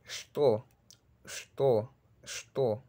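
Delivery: что said "shto", with an initial sh straight into t; Russian word demo. Shown as a demonstration. Teacher modelling Russian qué for Spanish speakers, careful pronunciation demo. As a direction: model что as one crisp syllable, "shto". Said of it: "Luego sigue la palabra qué".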